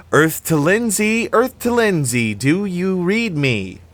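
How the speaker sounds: high, loud mock radio call; hailing a dreamer. A narrator's reading. Annie hails the child in a video trance, high and loud. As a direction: call out as if radioing someone spaced out.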